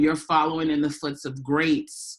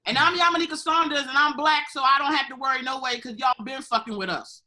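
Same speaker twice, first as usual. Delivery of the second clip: mock ad sign-off; 9 semitones higher, faster than usual. Jokey campaign ad sign-off.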